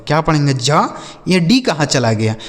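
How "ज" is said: "ज" alone, with silent d; DGE read as J. Shown as a demonstration. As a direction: give only a low "ज" sound. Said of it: "केवल और केवल आप ज पढ़ेंगे". ("ज", ड बिल्कुल साइलेंट)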